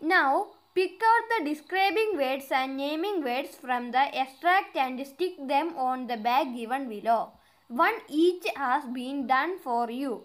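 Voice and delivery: slow, deliberate read-aloud of an English exercise; careful dictation pace; slow textbook reading. Acted. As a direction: read each word out clearly for the class. Reads instruction slowly.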